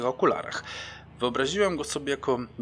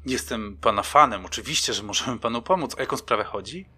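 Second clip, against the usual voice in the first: put-on excited like a teenage girl. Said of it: "powiedziałem podekscytowany jak nastoletnia dziewczynka".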